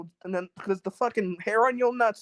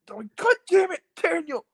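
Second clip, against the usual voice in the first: exasperated curse; 9 semitones higher, 4 dB louder than usual. Retold or imitated. Exasperated at his friend.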